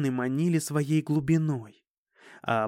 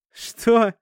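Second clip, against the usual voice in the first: scoffing; 8 semitones higher, 7 dB louder than usual. A narrator's reading. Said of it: "усмехнулся я".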